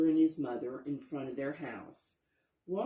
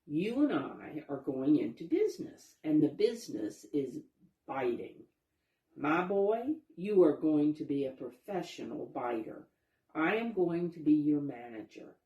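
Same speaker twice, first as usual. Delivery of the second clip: smooth-talking fox; 4 dB louder than usual. Acted. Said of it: "Wyatt said to Walter".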